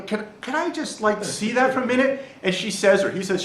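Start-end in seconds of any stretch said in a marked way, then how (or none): 0.0-2.2 pleading student. Acted. Student asks the teacher to see the answer page, tentative pleading. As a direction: ask timidly for a small favor.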